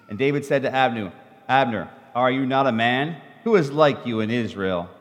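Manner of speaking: a reader sharing verses in turns; scripture reading. Acted. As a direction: read the passage out to the congregation. Reads scripture passage aloud.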